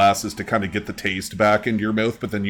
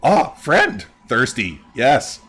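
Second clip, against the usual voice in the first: bird creature; 4 semitones higher, 5 dB louder, much slower than usual. Acted. Voices Pretty Bird.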